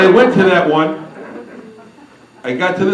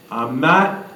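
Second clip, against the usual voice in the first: slow, drawn-out refusal; retold refusal; much slower than usual. Joe telling Judy he won't join, slow refusal. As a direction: dig your heels in, stretching each word.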